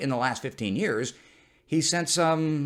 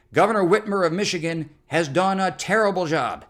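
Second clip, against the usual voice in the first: Trump impression; 6 semitones higher, 5 dB louder than usual. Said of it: "Here's what he finally tweeted".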